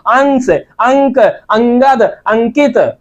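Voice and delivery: अंश, अंक, अंगद, अंकित with strong nasal consonant; anusvar demo. Shown as a demonstration. Teacher contrasting anusvar words for students, nasal demo. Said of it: "लेकिन यहाँ पर नाक से".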